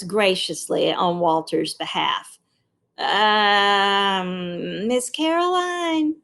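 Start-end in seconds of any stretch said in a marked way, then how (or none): 3.0-6.2 put-on child voice. A narrator's reading. Child speaking up in class.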